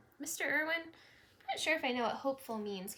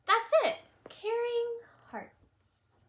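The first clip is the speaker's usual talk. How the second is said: eureka; 12 semitones higher, 7 dB louder, much slower than usual. Acted. Teacher has an idea.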